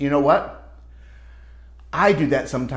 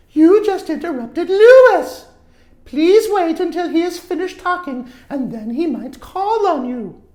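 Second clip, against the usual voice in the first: higher, louder patient teacher voice; firm teacher; 14 semitones higher, 8 dB louder than usual. Acted. Teacher telling Richard to wait his turn, firm. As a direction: correct him firmly but kindly. Teacher scolds interrupting student.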